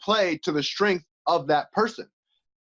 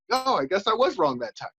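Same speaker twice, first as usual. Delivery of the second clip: mock conceding wife; 3 semitones higher than usual. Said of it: "the woman looks at it like".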